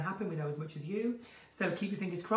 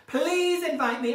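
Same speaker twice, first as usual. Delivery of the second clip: drawn-out pleading; 7 semitones higher, 7 dB louder, slower than usual. Acted. Begging to join the online panto.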